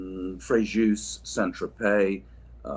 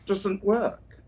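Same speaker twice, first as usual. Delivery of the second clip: answer to quiz; 11 semitones higher, 3 dB louder than usual. Shown as a demonstration. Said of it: "the air conditioning what?".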